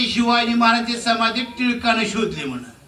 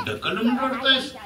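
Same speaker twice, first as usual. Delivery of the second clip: the elder's line said with a laugh; laughing mock quote; 4 semitones higher than usual. Retelling the elder mocking Phule's tears, laughing. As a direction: laugh through the elder's rebuke. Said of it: "आणि हसतोय".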